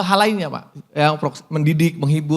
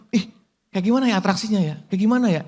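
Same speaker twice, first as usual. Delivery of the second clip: lightly acted curious viewer, quick and higher; quick, higher-pitched pretend wondering; mock curiosity; 4 semitones higher, much faster than usual. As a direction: imitate a viewer wondering aloud. Voices a curious would-be viewer.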